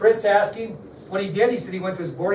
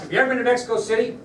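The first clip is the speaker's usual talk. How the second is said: fast, higher, pushy question; agent pressing hard; 6 semitones higher, 3 dB louder, much faster than usual. Retold or imitated. Agent repeats his question to Oswald, fast and pushy. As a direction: rattle it off at him.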